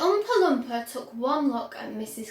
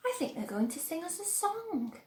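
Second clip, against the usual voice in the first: whispered; 5 semitones higher, 7 dB quieter than usual. A narrator's reading. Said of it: "whispered Grandpa Joe".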